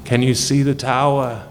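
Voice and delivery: booming echoing villain monologue. Acted. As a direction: savor each threat like a tyrant. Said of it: "I am the D M".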